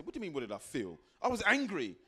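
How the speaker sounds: annoyed client. Retold or imitated. Client retorts about feeling angry.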